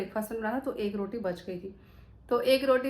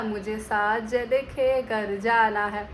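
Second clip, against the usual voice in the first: quoting a reel; 3 dB louder, much slower than usual. Retold or imitated. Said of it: "वो reel थी ना".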